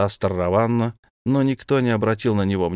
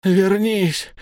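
high, loud plea; begging the god to come back, loudly; desperate shout; 11 semitones higher, 4 dB louder than usual. A narrator's reading. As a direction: call out after him. Wizard shouts after vanishing god.

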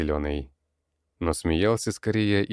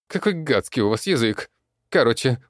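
high, loud creaky goblin voice; screechy goblin ranting; 9 semitones higher, 5 dB louder than usual. A narrator's reading. Goblin boss snarls at the humans, high and loud. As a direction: goblin boss barking orders.

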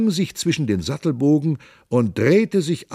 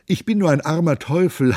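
bawled plea; 5 semitones higher than usual. Acted. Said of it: "Da plärrte Gymnastes".

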